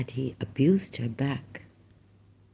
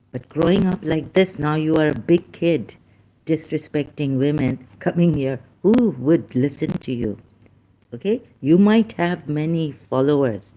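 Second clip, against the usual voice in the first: raised, scolding voice at a rude commenter; angry scolding; 3 dB louder than usual. Real, not acted. Vlogger scolding a disrespectful viewer, angry and louder. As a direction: tell him off, voice rising and louder. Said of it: "I get angry".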